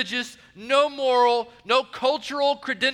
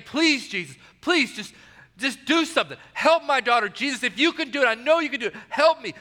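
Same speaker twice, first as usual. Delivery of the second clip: a touch of desperate begging, slightly raised; pleading mother; 3 semitones higher than usual. Retold or imitated. Preacher voicing the desperate mother begging Jesus, mild plea. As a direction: voice the mother imploring Jesus, mildly urgent. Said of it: "that she keeps on begging".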